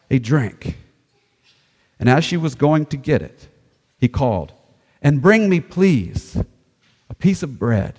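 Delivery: projected, measured Bible storytelling; scripture reading. Acted. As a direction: read it out with deliberate pauses. Reads scripture aloud.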